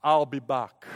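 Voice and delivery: put-on low German-accented action-hero voice; Arnold Schwarzenegger. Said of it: "In your best German accent".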